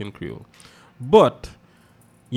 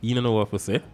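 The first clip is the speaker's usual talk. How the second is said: judging onlookers; 2 semitones higher than usual. Retold or imitated. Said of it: "everybody will be looking at you like".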